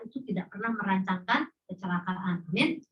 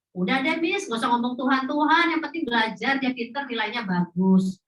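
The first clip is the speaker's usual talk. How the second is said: irritated parent. Retold or imitated. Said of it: "orang tuanya marah sama saya".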